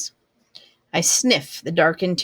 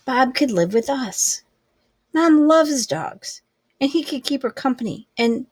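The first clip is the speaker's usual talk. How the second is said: put-on higher, eager girl pleading with her dad; 6 semitones higher than usual. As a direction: rush the idea out hoping he says yes.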